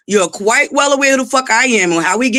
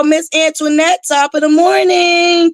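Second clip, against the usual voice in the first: sing-song greeting; 5 semitones higher than usual. Real, not acted. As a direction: stretch "morning" up high like a cheery hello.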